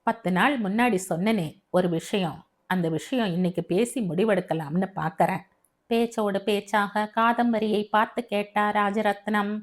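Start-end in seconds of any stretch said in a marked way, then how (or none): 0.0-5.4 a hint of a sober father; understated fatherly character voice; lightly voiced father. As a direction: lightly play a father broaching a serious matter.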